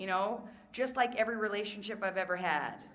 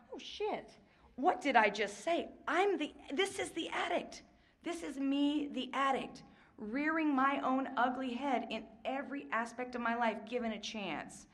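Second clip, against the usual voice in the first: high, shocked "oh no" realization; jolted as if catching herself out; startled realization; 4 semitones higher than usual. Retold or imitated. Watching herself from above, high and shocked at her own words.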